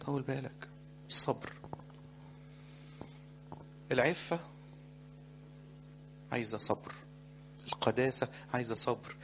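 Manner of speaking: tender pastoral advice; gentle counsel. Acted. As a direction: soothe them into patience. Gentle exhortation to patience.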